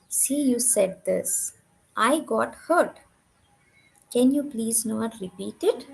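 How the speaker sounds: slow, measured retelling of a calm request; neatly conveyed. Retold or imitated. Wife calmly telling her husband she got hurt, slow and measured. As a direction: put it slowly and neatly, without anger. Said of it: "neatly saying my husband".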